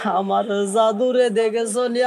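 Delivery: mildly plaintive, drawn-out call to a caravan; restrained melodic lament; tearful calling. Acted. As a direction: ask the travellers with a touch of weeping. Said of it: "Abdul Muttalib কান্দে আর কয়".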